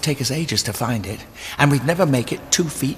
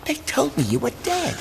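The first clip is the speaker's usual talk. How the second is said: astonished; 12 semitones higher than usual. Acted. Shock at friend alive.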